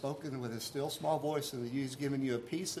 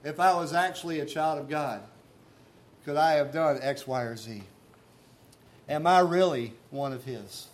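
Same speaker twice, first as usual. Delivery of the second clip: louder, pleading anguish; anguished self-doubt; 7 dB louder than usual. Retold or imitated. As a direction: cry it out as a sinner doubting himself. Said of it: "in moments where you say".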